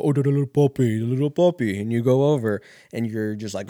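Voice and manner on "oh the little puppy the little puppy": gushing, louder coo at a puppy; mock baby talk to a little dog. Dog lover greeting a little puppy, gushing.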